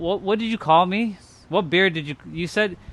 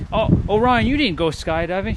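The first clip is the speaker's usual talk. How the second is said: mock doubter; 4 semitones higher than usual. Quoting a skeptic doubting Ryan's skydive, whiny mock. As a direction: whine it like a disbelieving friend. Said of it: "if someone says".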